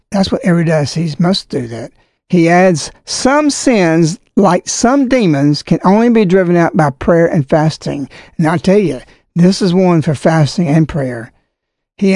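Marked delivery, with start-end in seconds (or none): 3.0-8.1 formal letter reading. Acted. Reads bishop's letter aloud.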